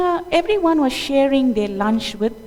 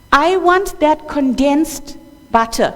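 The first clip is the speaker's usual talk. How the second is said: put-on a little boy crying for a treat; crying child; 3 semitones higher, 4 dB louder than usual. Little Krishna cries to the gopis for butter, whining. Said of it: "This is crying".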